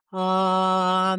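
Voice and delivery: a strong buzzing ah while massaging. Shown as a demonstration. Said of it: "make some sound".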